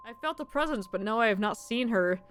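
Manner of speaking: lightly voiced mysterious medium; fortune teller voice.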